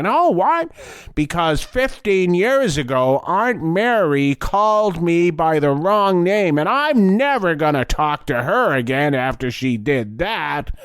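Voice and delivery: mock indignant. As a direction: mimic a sulky relative. Mocking a grudge-holder.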